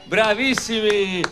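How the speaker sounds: big, bright quiz-master questions to a crowd; milk each question like a TV host; showy game show host. Acted. Quizzing schoolchildren like a quiz. (presentatore da quiz televisivo)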